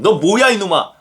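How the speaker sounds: lightly acted scolding God; a touch of indignant telling-off; mock stern rebuke. Preacher imagines God scolding the praying believer, mock stern.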